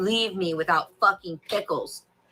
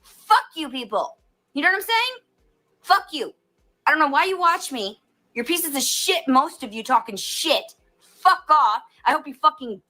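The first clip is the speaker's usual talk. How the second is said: raised, heated venting at viewers; furious rant; 4 semitones higher than usual. Real, not acted. Venting at online critics, a real furious rant. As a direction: let it all out, fed up and shouting. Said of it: "and I'm fucking pissed".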